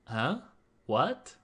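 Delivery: 疑惑的语气; doubtful huh what. Shown as a demonstration. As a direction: ask like you didn't catch it. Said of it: "expressing doubt or asking for an answer".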